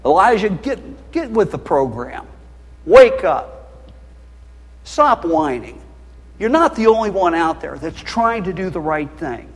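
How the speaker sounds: a rebuke, loud in the middle; a hint of a stern God scolding Elijah. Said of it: "And then God said".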